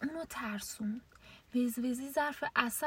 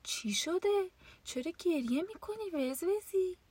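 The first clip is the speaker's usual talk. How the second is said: wolf asking; 7 semitones higher than usual. A narrator's reading. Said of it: "آقا گرگه پرسید".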